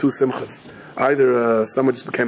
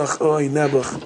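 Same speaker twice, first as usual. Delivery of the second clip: slow, mock pitying groan; slower than usual. Onlookers reacting to the suffering scholar, slow mock pity. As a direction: draw it out in exaggerated pity. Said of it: "Everyone's gonna go".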